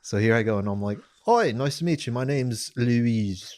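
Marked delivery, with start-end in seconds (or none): 1.3-3.5 put-on British accent, drawing out the name; lightly acted British introduction, slowing on the name; practised British accent. Introducing himself to the girls, British accent. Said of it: "five-hour drive to practice this".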